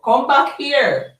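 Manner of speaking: high, drawn-out call; calling back. Real, not acted. Host to live viewers, calling them back.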